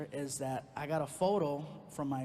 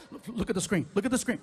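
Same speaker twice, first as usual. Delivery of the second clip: insistent; 4 semitones higher, 6 dB louder than usual. Retold or imitated. Insisting to girlfriend.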